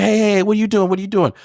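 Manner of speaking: high, urgent imitation; retold intervention. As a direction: break up a fight, retold. Retold adult breaking up a fight.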